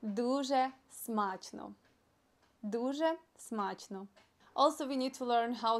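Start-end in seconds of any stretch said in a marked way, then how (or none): 0.0-4.1 slow, spaced-out model of a phrase; slow demonstration. Shown as a demonstration. Teacher models a Ukrainian phrase for learners, slow demonstration. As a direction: say it slowly for learners to copy. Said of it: "you need to say in Ukrainian".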